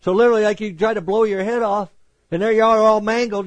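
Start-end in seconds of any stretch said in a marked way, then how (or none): none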